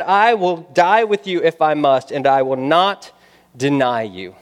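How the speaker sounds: preacher voicing a bold pledge, easing down; solemn promise, acted with conviction; emphatic vow. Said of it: "so boldly and emphatically".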